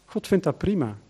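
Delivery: ordinary talk, nothing marked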